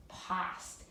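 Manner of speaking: whispered "past" with short a. Shown as a demonstration. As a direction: breathe out "past" softly. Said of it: "doesn't sound like a real word".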